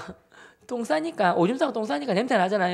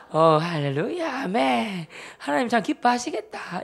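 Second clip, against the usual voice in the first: drawn-out sarcastic hallelujah and amen; pious teasing; 2 semitones higher, slower than usual. Retold or imitated. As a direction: needle a brother with mock praise. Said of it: "이렇게 하면서 막 이런 놀리는 거예요".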